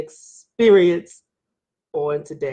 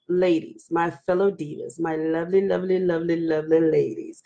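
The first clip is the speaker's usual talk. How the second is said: low, softened coaxing of the ladies; butter them up, low and gentle; sweet-talking; 6 semitones lower, 4 dB quieter than usual. Real, not acted. Host appealing to her fellow divas to be respectful, sweetly coaxing.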